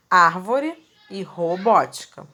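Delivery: "Árvore" stressed on ÁR, "robótica" on BÓ; stress on antepenultimate syllable. Shown as a demonstration. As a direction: punch the third-last syllable in "Árvore e robótica". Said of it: "sempre a acentuação acontece".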